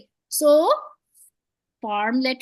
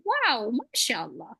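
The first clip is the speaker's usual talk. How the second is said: amazed wow; 4 dB quieter, slower than usual. Shown as a demonstration. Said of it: "what do you say when you see something amazing".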